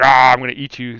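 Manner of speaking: playful giant-monster growl; monster roar. Retold or imitated. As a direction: open on a big mock roar, then the threat. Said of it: "looks like Godzilla".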